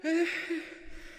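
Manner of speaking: high, breathy hammed-up sigh; dramatic sigh. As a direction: heave a big showy sigh. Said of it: "I'm out of breath".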